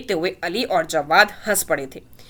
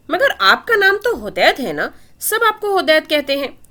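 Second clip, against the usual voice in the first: put-on higher, innocent child's voice; a puzzled toddler reasoning it out; innocent little girl; 7 semitones higher than usual. A narrator's reading. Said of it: "दुआ मासूमियत से ... बोली".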